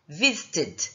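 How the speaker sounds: visited, final syllable clearly said as "id"; visited with id ending. Shown as a demonstration. Teacher modelling for students: visited ending in a clear "id". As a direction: end visited on a clean "id" sound. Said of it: "o final que eu falei pra vocês, id".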